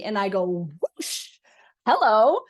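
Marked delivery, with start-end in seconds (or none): 1.0-1.4 whoosh of wind. Retold or imitated. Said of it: "huge wind has just been blown at me". 1.9-2.4 startled, bright "hello" pitched up; loud surprised hello. Retold or imitated. Medium greeting a strong spirit, loud and startled. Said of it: "huge wind has just been blown at me".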